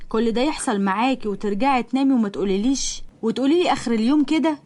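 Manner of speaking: reproachful mother. Acted. Mother reproaches daughter at dinner.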